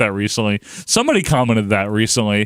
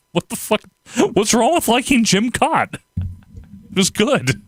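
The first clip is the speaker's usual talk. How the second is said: mock outrage; 10 semitones higher than usual. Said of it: "I'm like".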